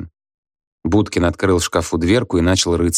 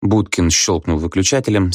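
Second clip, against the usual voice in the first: plain reading voice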